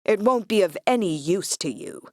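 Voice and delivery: harsh American drawl; defiant, harsh American drawl. A narrator's reading. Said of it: "His voice is a harsh American drawl".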